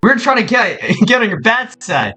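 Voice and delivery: high, hurried backpedalling; high startled sorry; startled apology. Acted. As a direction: flinch and apologize fast. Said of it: "He's like".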